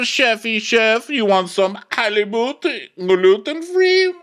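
over-the-top impression of a commanding waiter; theatrical waiter. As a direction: ham it up, swelling to a high, slow peak.

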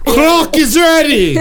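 barbarian Croc. Pretend. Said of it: "Croc is now subbing in".

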